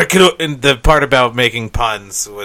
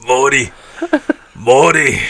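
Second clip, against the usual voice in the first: Rick impression; 4 dB louder than usual. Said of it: "Now you're turning into Pickle Rick".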